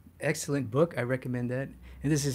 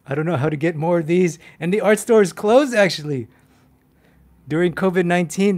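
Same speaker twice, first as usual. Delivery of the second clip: mock despair; 5 semitones higher, 7 dB louder than usual. Real, not acted. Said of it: "Oh my God, I'm gonna cry".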